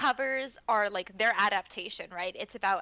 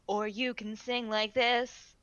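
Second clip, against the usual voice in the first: low slow voice; slower than usual. Shown as a demonstration. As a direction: lower and slower. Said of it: "you can sing a song".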